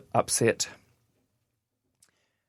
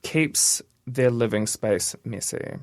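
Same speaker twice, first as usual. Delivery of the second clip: "Keeps their living space messy" read slowly, word by word; slow down on "Keeps", then spell out "their living space messy"; careful, slow repeat of "Keeps their living space messy"; deliberate rereading; slower than usual. Real, not acted. Rereads item after listener questions it.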